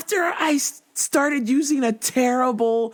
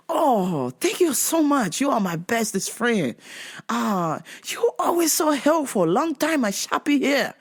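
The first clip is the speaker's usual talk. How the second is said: mollified customer in mock Asian broken English; grateful Asian accent. Grateful customer thanking clerk, mock Asian accent. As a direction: gush gratitude in an Asian accent. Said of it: "went from being pissed off".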